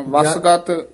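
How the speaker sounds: ਵਸਗਤ with ਵਸ tight and ਗਤ light; ਵਸਗਤ as one word, firm first half; tight then soft syllable. Shown as a demonstration. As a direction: press ਵਸ, release ਗਤ. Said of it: "ਵਸ ਕਸ ਕੇ ਬੋਲਣਾ".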